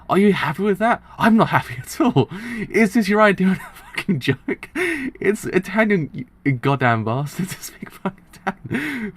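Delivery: loud, high outraged rant breaking into laughter; mock-angry rant. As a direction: rage like an exasperated character, cracking up. Acting out a manga character's rant.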